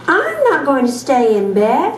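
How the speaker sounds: reading with expression. Shown as a demonstration. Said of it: "I'm gonna read it like".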